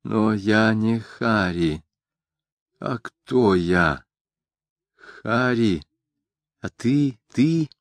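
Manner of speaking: сбивчиво, с нарастающим удивлением, выше к концу; будто очнулась и не понимает, кто она; растерянное недоумение. Acted. Героиня в трансе спрашивает. (растерянно, с нарастающим изумлением)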